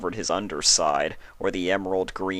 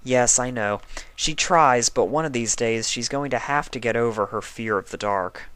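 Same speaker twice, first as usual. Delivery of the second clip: slightly higher tired pony voice; a hint of a weary patient; lightly voiced sick unicorn; 4 semitones higher than usual. Twilight asks Spike for a book, lightly voiced tired pony.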